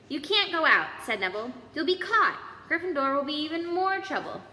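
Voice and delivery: high, loud nervous protest; pleading loudly. Acted. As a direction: stand your ground, scared. Neville blocks the way.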